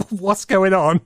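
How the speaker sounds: slowly laughing it out. Real, not acted. Amused at the king story, repeating his line laughing.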